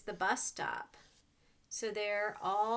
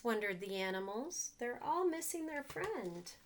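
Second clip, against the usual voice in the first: put-on reading to children. A narrator's reading. Reads picture book to children.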